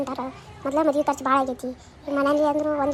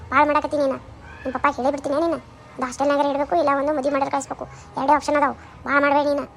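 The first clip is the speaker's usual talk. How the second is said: angry threat. Acted. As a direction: scold and threaten, rising heat. Mother threatens daughter.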